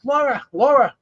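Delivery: mock a bird calling out a name; high-pitched mimicked bird call; imitating screaming parrot. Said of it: "screaming and, and calling my wife's name".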